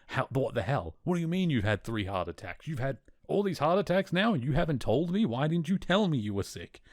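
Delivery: mock distraught wife demanding answers; upset outburst. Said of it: "She immediately very emotional".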